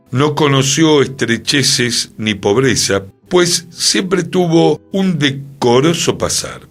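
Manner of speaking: declaimed description, pitch rising on key phrases; formal quotation reading. Acted. Host quoting how friends described Pachequito, formal declaimed reading. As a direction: read the portrait out with oratorical emphasis.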